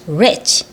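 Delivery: "rich" with rounded lips on the R; careful model "rich" with an English R. Shown as a demonstration. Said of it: "입술 모양 또 동그래지네요".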